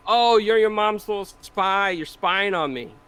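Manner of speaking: drawn-out, lightly voiced scolding; retold accusing dad. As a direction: imitate a dad teasingly accusing his kid. Father accusing child in a story.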